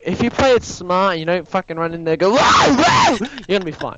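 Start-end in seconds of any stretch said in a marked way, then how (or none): 2.3-3.2 high squealing excited wow; mock panicked wow. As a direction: shriek it like a panicking fool. Mocking someone panicking loudly.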